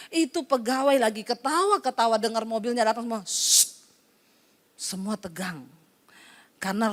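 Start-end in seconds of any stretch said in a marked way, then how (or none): 3.2-3.8 hush. Retold or imitated. Staff hush as boss arrives.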